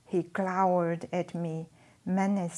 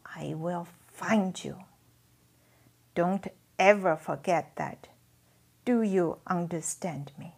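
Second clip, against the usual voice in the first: cold, hard threat, louder; steely; 5 dB louder than usual. Acted. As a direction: lean in and threaten. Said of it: "here his voice became steely".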